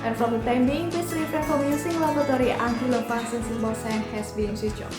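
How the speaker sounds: cabin PA announcement voice; flight attendant. Shown as a demonstration. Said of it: "announcement-nya kalau terjadi turbulence tuh kayak gini".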